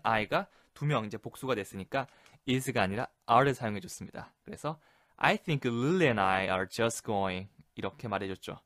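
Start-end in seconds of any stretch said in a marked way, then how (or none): 5.2-7.5 very slow, drawn-out excuse; hesitant slow excuse. Shown as a demonstration. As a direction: linger on each word, apologetic. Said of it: "완곡하게 거절". (머뭇거리며 느리게 변명하듯)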